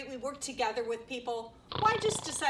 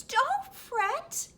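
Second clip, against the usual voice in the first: lightly voiced little mouse, pitched up; a hint of a high mouse voice; squeaky mouse; 6 semitones higher, slower than usual. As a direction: squeak reassurance in a small high voice. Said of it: "Mouse squeaks".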